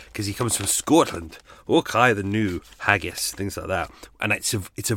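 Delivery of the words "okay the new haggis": slow mock Scottish accent; stereotypical Scottish. Shown as a demonstration. Podcaster showing the voice he struggled with, mock Scottish. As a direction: put on a stock Scottish accent. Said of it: "John was gonna be Scottish".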